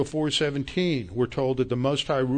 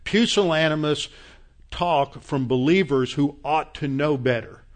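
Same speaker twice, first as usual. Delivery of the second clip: real frustration building into louder rebuke; angry; 4 dB louder than usual. Real, not acted. Preacher rebuking timid believers who opt out, angry and louder. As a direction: scold them, getting louder toward the end. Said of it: "I'm sorry I'm angry".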